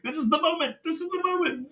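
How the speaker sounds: very high, excited squeal of words; giddy anticipation. Retold or imitated. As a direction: squeak it out like a fan who can't believe it. Excited fan reaction, retold.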